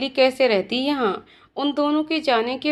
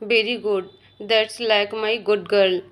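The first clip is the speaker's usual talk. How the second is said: teasing; 3 semitones lower, much slower than usual. Acted. Teasing praise, drawn out.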